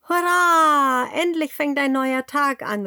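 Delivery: very high, loud piglet cheer; excited cheer. A narrator's reading. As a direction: shout hooray at the new day. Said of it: "ruft es".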